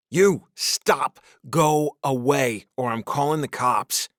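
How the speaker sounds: loud high warning, slowing on go away; tired father threatening a drunk stranger; angry threat. A narrator's reading. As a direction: threaten him off the porch. Threatening stranger with fruit bowl.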